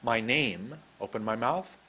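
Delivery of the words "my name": two words together. Shown as a demonstration. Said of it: "I will then have you putting two words together".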